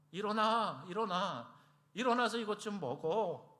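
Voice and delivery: anxious angel rousing a sleeper; urgent waking. Retold or imitated. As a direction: shake a sleeper awake with worried urgency. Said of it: "안타깝게 흔들어 깨우는 거예요".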